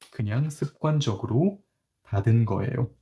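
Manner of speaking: fast and offhand, 그냥 습관적으로 tossed off; casual habitual tone. Shown as a demonstration. Teacher showing students a fast, offhand 그냥 습관적으로 닫은 거예요. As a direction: brush it off as if it's nothing special. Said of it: "Hey, I just closed it habitually".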